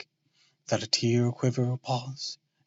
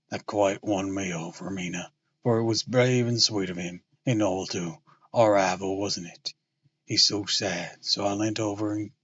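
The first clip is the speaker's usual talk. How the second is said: Lucy's lines read in the lower suitor voice; suitor's voice by mistake; 5 semitones lower than usual. Shown as a demonstration. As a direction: slip into his lower voice. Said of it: "was already doing her voice with his".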